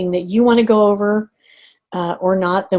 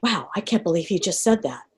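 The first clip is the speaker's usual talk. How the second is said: softer, held-in inner thought; internal voice; 7 dB quieter than usual. Shown as a demonstration. Coach showing a silent inner reaction, softly. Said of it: "This is internal".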